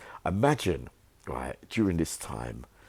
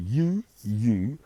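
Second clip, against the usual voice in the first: John ordering them out; 6 semitones higher than usual. Retold or imitated. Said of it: "This is him".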